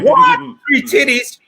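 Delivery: high yelp of surprise on what; shocked disbelief. Retold or imitated. Client hears of the three-breasted girl, shocked high yelp. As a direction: squeal it in disbelief. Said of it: "And this man".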